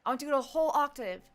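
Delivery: lightly voiced director pushing; firm retold instruction; insistent choir director. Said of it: "Oh, I see it".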